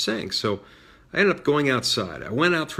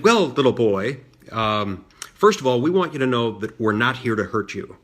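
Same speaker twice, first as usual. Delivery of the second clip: mildly mocking, talking down to a child; condescending; 5 dB louder than usual. Protest leader to little boy, retold as condescending. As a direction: imitate a patronizing adult, a touch emphatic. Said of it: "in the most condescending tone imaginable".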